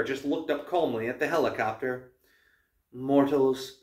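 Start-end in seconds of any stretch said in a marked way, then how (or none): 2.9-3.8 stately, measured address; announced. A narrator's reading. Huntress addresses the helicopter, announcing. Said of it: "she announced".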